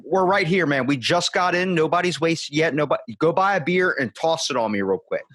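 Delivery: half-joking invite, come on, toss it on me; mock eager plea.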